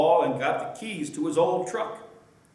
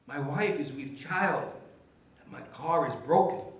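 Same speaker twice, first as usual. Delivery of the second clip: put-on deep Spanish accent; 5 dB quieter than usual. A narrator's reading. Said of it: "with a deep Spanish accent".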